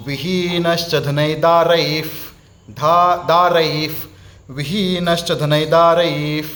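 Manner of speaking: विहीनश्च धनैदारैः drawn out slowly; careful slow chant for students; slow recitation. Shown as a demonstration. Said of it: "ध्यान से सुनिएगा".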